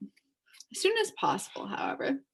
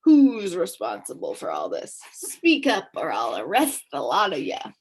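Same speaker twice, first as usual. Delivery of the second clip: gruff demand; 5 dB louder than usual. Acted. Policeman demanding answers.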